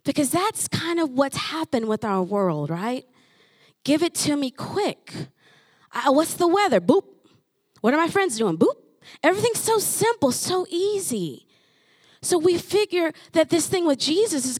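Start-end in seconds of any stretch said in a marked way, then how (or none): 3.8-8.8 mock impatient. Mocking instant-gratification world.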